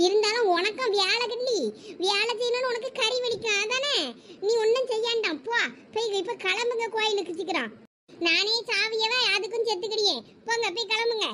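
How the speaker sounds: lightly voiced scolding mother.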